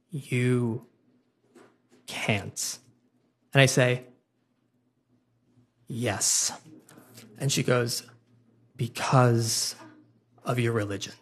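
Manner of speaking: a hint of a squinting girl working it out; lightly voiced Sarah. Sarah's quiet guess.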